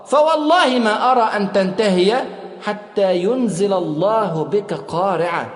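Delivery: slow, weighty challenge, slowing at the end; forceful. Retold or imitated. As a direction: press each word with strength. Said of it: "وقال له في قوة". (بقوة وبطء)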